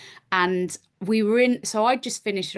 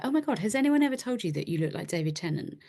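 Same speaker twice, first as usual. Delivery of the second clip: mock fan; 3 semitones higher, 3 dB quieter, faster than usual. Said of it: "just be like".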